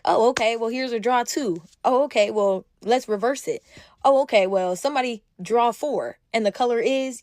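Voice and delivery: teasing, mock-surprised game banter; playful trash talk. Joking with friends over Uno, playful trash talk. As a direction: toss out light competitive jabs. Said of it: "it's funny stuff".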